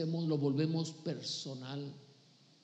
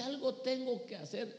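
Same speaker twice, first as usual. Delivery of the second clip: pitched up, lifting on tengo; higher resolve; 6 semitones higher than usual. Shown as a demonstration. Preacher voicing the believer's call, pitched higher. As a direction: raise it like a sudden calling. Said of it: "Pero cuando usted dice".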